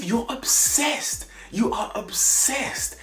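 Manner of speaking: high, slow mocking sing-song; mock high whiny voice. Mocking a contestant in a high whiny voice. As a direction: sneer at her in a squeaky mimic.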